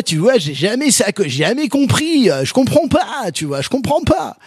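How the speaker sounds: hammed-up southern French accent from Marseille; mock Marseille accent. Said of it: "ton imitation de l'accent marseillais".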